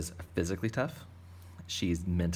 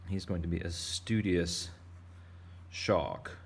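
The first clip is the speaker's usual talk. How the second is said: a light hint of a British accent on "studious". Shown as a demonstration. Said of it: "Sorry, again, with the British accent".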